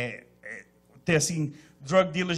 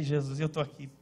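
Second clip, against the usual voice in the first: quiet complaint; 8 semitones lower, 7 dB quieter than usual. Retold or imitated. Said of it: "Eu falei".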